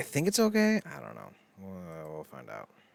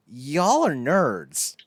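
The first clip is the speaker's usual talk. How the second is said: slow scornful jab; 3 semitones higher, 5 dB louder, slower than usual. Retold or imitated. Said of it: "I'm just sitting here like".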